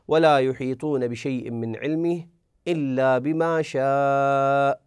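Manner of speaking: measured recited verse, with a long stretch on the final شاء; steady Quranic recitation. Acted.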